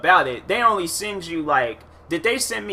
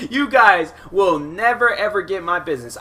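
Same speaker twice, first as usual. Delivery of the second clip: mock vow; 5 semitones higher, 5 dB louder than usual. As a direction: swear it off in a hammed-up laugh. Repeated louder, slower, laughing.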